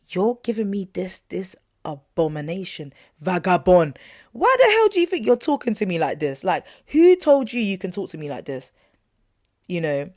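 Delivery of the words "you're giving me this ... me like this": indignant outburst. Real, not acted. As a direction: let the outrage spill over. Ranting about his disrespect.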